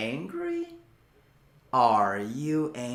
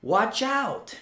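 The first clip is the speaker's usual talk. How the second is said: mock warning; 5 semitones higher than usual. Shown as a demonstration. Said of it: "注意".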